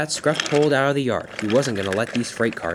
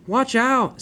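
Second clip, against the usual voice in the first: high urgent warning call, louder; 11 semitones higher, 4 dB louder than usual. Acted. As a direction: call it out in alarm. Warning of falling boulder.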